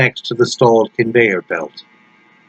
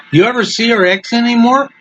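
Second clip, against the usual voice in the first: high, fast rat voice; high, rapid, smoke-coughing rodent; smoky Pachuco rat; 12 semitones higher, faster than usual. A narrator's reading. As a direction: squeak it out quick like a zoot-suited rat. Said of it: "the Pachuco rodent asked him, coughing out vast clouds of smoke".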